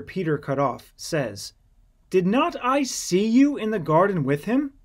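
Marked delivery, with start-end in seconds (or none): 2.1-4.7 higher, louder pointed question; higher accusing question; accusing challenge. Acted. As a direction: catch him out with it. Servant accuses Peter.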